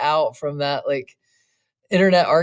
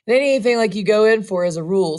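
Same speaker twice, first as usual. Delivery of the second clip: apologetic; 5 semitones higher, 4 dB louder, faster than usual. Acted. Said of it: "said the boy apologetically".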